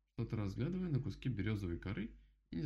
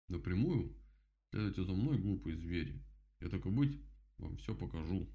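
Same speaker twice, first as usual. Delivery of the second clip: condescending beaver. Acted. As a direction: order the silly animals along.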